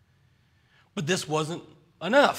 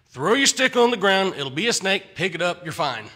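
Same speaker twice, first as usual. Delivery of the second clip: exasperated God; 5 dB louder than usual. Retold or imitated. God voiced, exasperated after sigh.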